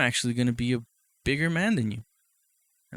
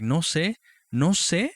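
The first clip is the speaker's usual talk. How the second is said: mock shrug; 6 semitones higher, 4 dB louder, slower than usual. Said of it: "And I was like".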